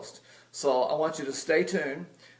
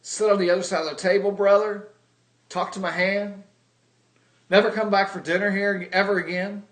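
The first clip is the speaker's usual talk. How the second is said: imitated sister, louder and indignant; mock indignant sister; 4 semitones higher, 4 dB louder than usual. Voicing his sister brushing him off, mock indignant. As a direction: throw him out of the family, half in jest. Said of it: "what is she gonna say?".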